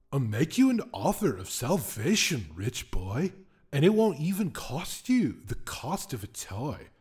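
a hint of a smug spirit, bright and pushy; the whim offers salvation at gunpoint, mildly menacing; lightly voiced whim. Whim makes threatening offer.

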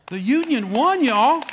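loud high proclamation; rousing preacher's cry; triumphant shout. Real, not acted. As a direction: call it out to the whole church.

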